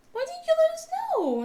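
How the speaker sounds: high, loud anguished question; a worried mother's cry; alarmed mom. Retold or imitated. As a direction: plead in shock to your child. Mom alarmed asking daughter.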